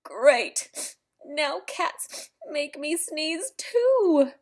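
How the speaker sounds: whispered dry great; sarcastic whisper. Acted. Elephant now sneezing at cats, whispered sarcasm. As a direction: breathe it out, fed up.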